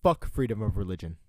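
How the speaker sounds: loud mock direct quote; imitating Varun. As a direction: quote him forcefully, hitting the first word. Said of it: "trying to say it in the voice that I remember you".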